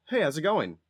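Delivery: polite phone voice for strangers; white voice. Shown as a demonstration. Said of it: "If it's somebody I don't know".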